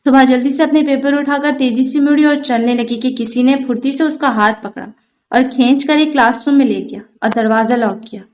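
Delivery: usual speaking voice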